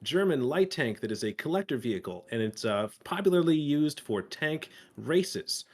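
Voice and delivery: upbeat YouTube host intro, brisk; announcer voice. Pretend. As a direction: hype it up like a video host. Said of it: "I'll even get on the announcer voice".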